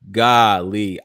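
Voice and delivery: loud amazed golly. Real, not acted. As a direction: gasp it out in disbelief. Reacting amazed to the clip.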